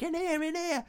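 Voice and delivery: high, hushed urging; a boy hissing come in, come in; urgent whisper-call. Retold or imitated. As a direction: beckon him in, high and quick. Boy urging him into church.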